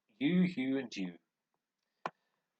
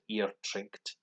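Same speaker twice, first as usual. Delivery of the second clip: slow demo. Shown as a demonstration. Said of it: "you just add T".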